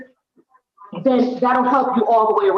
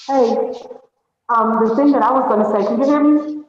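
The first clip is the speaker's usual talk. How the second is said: hallway echo. Real, not acted. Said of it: "you sound like you're in the hallway".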